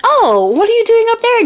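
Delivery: high, put-on old crone calling up; high crone voice with fake sweetness; sly old woman. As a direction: coax her down like a sweet old witch. Old cook calls up to fairy.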